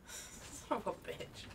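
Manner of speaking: breathy muttered swear under breath; whispered curse. Real, not acted. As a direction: hiss it under your breath. Muttered curse after dying.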